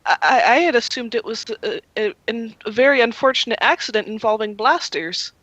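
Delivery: nervous stammer. Acted. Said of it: "he starts stammering a little bit".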